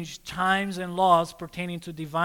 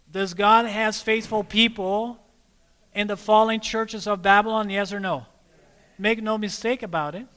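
ordinary talk

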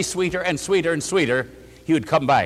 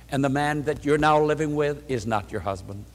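pity and love; 4 semitones lower, 5 dB quieter than usual. Retold or imitated. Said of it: "with that smile of pity and love".

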